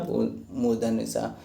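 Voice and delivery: drawn-out, slow मूर्धन्य सा with each syllable stretched; slow model word. Shown as a demonstration. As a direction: say मूर्धन्य सा slowly for the class to copy. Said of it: "आज से यही बोलना है".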